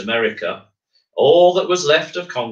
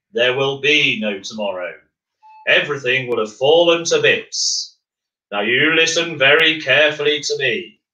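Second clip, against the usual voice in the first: firm Earthmaker; 3 semitones higher than usual. Acted. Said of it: "said the voice firmly".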